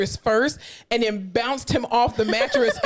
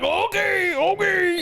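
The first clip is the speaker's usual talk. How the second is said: meek patient; 8 semitones higher, much slower than usual. Retold or imitated. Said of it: "And he's like".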